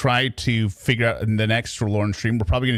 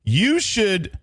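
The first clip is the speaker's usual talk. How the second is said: gleeful egging on; 8 semitones higher than usual. Real, not acted. Urging the girlfriend to dump him.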